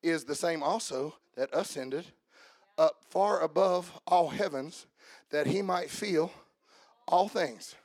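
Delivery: measured, solemn reading of the verse; scripture reading. Acted. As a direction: read it like holy scripture. Reads scripture aloud.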